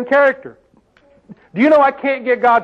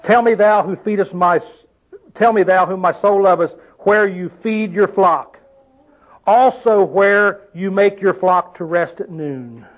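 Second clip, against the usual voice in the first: scripture reading. Shown as a demonstration. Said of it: "reading the verse".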